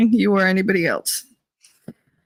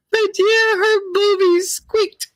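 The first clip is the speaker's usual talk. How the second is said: giggly recap; 10 semitones higher, slower than usual. Real, not acted.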